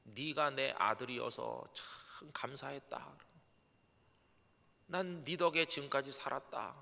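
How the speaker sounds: a frail mother blessing her son with her last breath; dying mother's whisper. Retold or imitated. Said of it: "하시는 말씀이".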